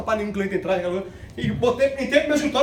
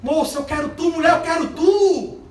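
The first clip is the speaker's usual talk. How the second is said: voice of God; 4 semitones higher than usual. Retold or imitated. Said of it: "É Deus dizendo".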